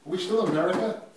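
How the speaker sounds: high, loud retold disbelief; beside himself. Man retelling his protest to a police officer, beside himself. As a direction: protest in incredulous outrage, retelling it. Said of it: "I was beside myself".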